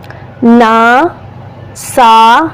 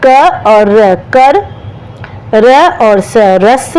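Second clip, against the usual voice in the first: slow blending; much slower than usual. Shown as a demonstration. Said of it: "तो अब मैंने क्या बनाए हैं देख लीजिए".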